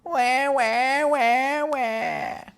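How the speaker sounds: high, drawn-out wah-wah; mock whining. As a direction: imitate a child's tendency to whine. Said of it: "there's a tendency to go".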